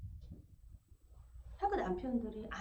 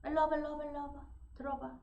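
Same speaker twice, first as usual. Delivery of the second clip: condescending; 4 semitones higher, faster than usual. Retold or imitated. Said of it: "잘난 척하는 언어가 있어요".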